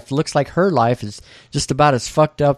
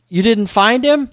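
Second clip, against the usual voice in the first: high Texas-twang question; disbelieving Texan woman, pitched up; 10 semitones higher, 3 dB louder than usual. Retold or imitated. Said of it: "She asks in a Texas twang".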